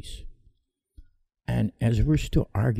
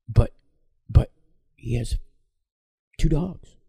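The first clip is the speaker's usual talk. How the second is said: stammering, rising to a much higher, louder whine; whiny protest; 5 semitones higher, 4 dB louder than usual. Retold or imitated. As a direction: mimic a stubborn whiner. Mocking the stubborn owner.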